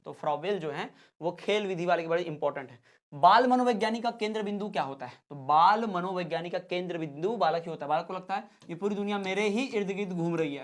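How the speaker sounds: usual speaking voice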